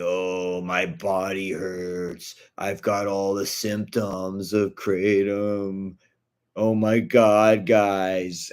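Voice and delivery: slow, mock-suffering groans; a slow, overacted sick voice; hammed-up sick act. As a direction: play up fake pain for the camera. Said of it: "he does all the acting saying".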